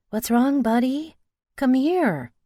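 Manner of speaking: alarmed. Acted. Mother woken by crying child.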